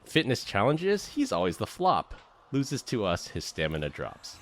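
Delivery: rhythmic, punchy poem reading; roast poem recital. Acted. Friend reading a roast poem to Glenn, rhythmic recital. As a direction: recite each couplet with comic swing.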